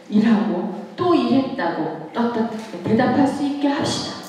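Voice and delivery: ordinary talk, nothing marked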